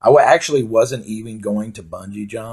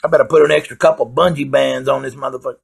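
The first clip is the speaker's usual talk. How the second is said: mocking the bungee guy; 4 semitones higher, 4 dB louder than usual. Bungee operator fretting about the big guy, lightly mocked. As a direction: ham up the nervous operator. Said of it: "he saw me and was like".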